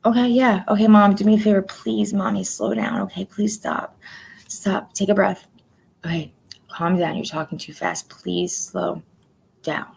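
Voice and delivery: gently coaxing mom. Retold or imitated. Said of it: "it's one of those".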